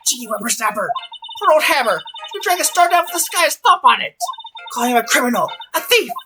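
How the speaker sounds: high, loud indignant rant; furious old guard. Acted. Old guard scolds the lawyer over Hammer, furious. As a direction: build to a loud, outraged splutter. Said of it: "she's really pissed this time".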